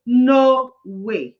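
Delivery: loud, flat refusal; emphatic refusal; firm no. Retold or imitated. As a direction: shut the idea down hard. Firm retort to people's question.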